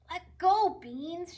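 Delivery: mock tug-of-war shout at the dog; Tilly tugging with the dog. A narrator's reading. Girl to her dog over a stick, loud kid voice. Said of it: "she says".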